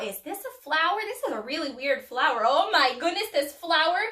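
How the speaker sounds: lightly voiced bewildered bee, building to indignation; puzzled bee. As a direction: play a baffled little bee getting flustered. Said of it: "trying to figure out".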